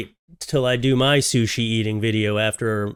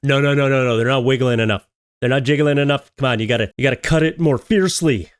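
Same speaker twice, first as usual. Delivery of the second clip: mock cooking video lady; 4 dB louder, faster than usual. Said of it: "it's like blatantly like".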